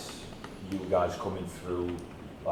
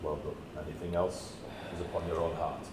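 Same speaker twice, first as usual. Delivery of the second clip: solemn wise elder; 2 semitones lower, 5 dB quieter than usual. Acted. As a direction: reassure them with quiet gravity. Solemn NPC comfort, slower, softer.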